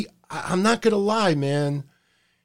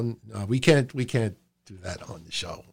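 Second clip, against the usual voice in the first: catching himself; 8 semitones lower, 8 dB quieter than usual. Real, not acted. Self-censoring on the show.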